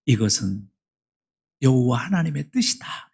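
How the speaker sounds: hushed scripture quote; whisper. Acted. Pastor reading God's will to the congregation, reverent whisper. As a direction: breathe the words reverently.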